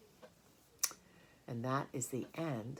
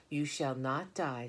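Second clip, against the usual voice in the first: brisk; slower than usual. Acted. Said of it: "said Charlotte briskly".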